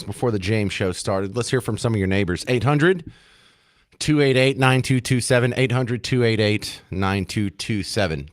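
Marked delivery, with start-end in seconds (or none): 5.6-8.3 slow repeat. Shown as a demonstration. Host repeating the call-in number to listeners, slow and deliberate. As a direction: spell it out slowly so listeners catch it. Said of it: "host repeats call-in number".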